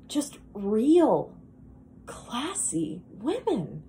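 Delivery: lightly acted wistful monologue, with sighs; a touch of dejected yearning; Linda. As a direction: confide a longing to a stranger, pausing often.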